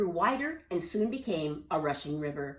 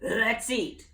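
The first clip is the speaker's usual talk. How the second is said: exclaiming; 4 semitones higher, 5 dB louder than usual. Acted. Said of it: "Captain Delbert exclaimed".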